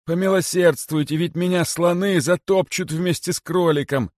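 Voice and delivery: high, anxious plea; begging for mercy. A narrator's reading. Kosoy begs the guards for his life, pleading. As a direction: beg urgently in a high, pinched pitch. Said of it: "шептал им в это время Косой".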